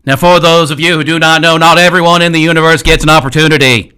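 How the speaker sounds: put-on a light Kennedy-style Boston accent. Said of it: "He's doing his Kennedy".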